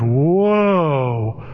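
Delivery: long, drawn-out mock reaction; group's whoa. Whole circle reacts to Dave's outburst, imitated drawn-out whoa. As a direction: stretch it out like a stunned group. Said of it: "everybody kinda goes".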